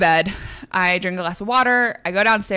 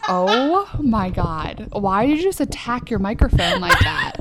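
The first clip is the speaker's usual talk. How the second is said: laughing; 4 semitones higher, slower than usual. Real, not acted. Friend's mic flailing.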